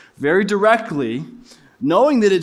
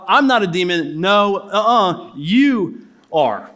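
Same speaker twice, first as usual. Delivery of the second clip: mock playground comeback; slower than usual. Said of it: "the ultimate playground com-, comeback".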